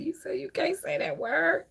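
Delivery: hushed breathy whisper of a quote; whispered recall of the call. Retold or imitated. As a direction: whisper it like a secret. Quoting the viewer, hushed.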